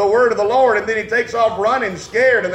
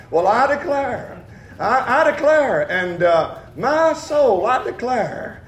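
put-on Appalachian accent. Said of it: "with the Appalachian accent".

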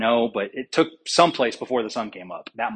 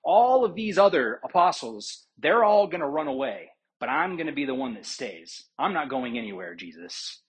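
proud boast; 3 semitones higher than usual. Acted. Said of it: "he says to Christ proudly".

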